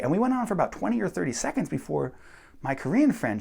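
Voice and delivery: ordinary talk, nothing marked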